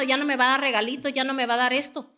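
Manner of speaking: quick, petty mock grumble; imagined grumbling thought. Preacher voicing a stingy believer's thought, quick mock grumble. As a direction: rattle off a stingy person's excuse. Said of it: "no esté pensando".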